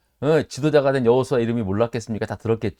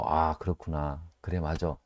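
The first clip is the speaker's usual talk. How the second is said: quiet realization; 8 semitones lower, 8 dB quieter than usual. Retold or imitated. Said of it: "은혜를 제가 또 이렇게 받았어요".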